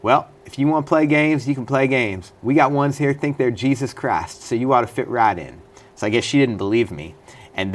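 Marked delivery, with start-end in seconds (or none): 0.0-5.6 higher-pitched imitation of a Kentucky woman; Kentucky accent. Intake woman dismissing the inmate's claimed career, Kentucky accent. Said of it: "this is my Kentucky accent here".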